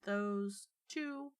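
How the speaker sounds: talking through a mouthful; words around a bite of food; mouth full. Acted. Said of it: "Through a mouthful of food".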